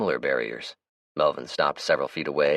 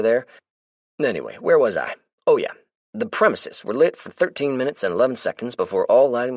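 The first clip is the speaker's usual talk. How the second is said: higher, brighter character voice; Melvin's voice; 5 semitones higher, 5 dB louder than usual. Acted. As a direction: play the chatty, easygoing Melvin. Melvin voices his lines.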